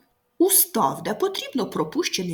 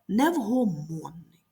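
невгомонний with stress on МОН; slow невгомонний, weight on МОН; stressed suffix; slower than usual. Shown as a demonstration. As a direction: lean on the ОНН in невгомонний. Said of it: "наголошені суфікси".

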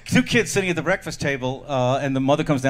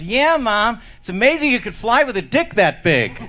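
put-on higher-pitched chirpy kid voice; little boy; 6 semitones higher than usual. Boy in car answering his mother, wide-eyed amazement. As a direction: play an amazed seven-year-old. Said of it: "And Johnny goes".

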